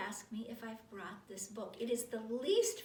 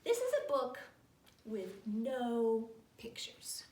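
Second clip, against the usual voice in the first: read-aloud; 6 dB louder, slower than usual. Acted. Reader opens the book for children, grand slow read-aloud. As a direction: announce it grandly, then stretch out the words.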